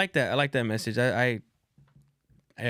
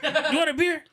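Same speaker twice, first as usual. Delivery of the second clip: high-pitched mock calling out; loud homie; 13 semitones higher than usual. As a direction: call to the host like a rowdy guest. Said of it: "that fool was just being loud as shit".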